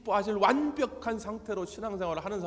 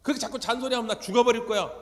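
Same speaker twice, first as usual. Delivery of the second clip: fast, louder, higher sulky threat; teen's threat; 5 semitones higher, 5 dB louder, faster than usual. Retold or imitated. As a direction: snap back like a nagged teenager. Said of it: "사춘기 자녀들이 부모를 협박합니다".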